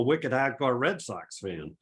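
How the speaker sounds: hint of Boston, r dropped in "hardcore"; mock Boston accent. Red Sox fan teasing his home region, mock Boston accent. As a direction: lightly imitate a Boston accent. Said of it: "wicked hardcore Boston accent".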